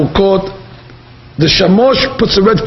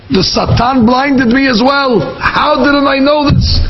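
high, drawn-out retold lament; anguished self-reproach; 7 semitones higher, slower than usual. A rabbi blames himself before his townspeople, anguished self-reproach. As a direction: lament your own blindness, slowly and high.

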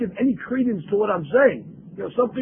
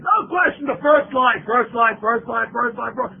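mock confident students; 2 semitones higher than usual. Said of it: "they all say confidently".

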